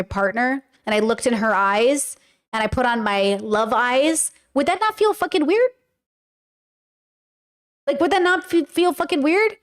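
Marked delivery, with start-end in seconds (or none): 4.5-9.6 incredulous. Real, not acted. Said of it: "rhetorical emphasis".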